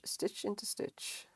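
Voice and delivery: murmured under the breath; whispered. Real, not acted. Crocheting on stream, counting stitches in a whisper.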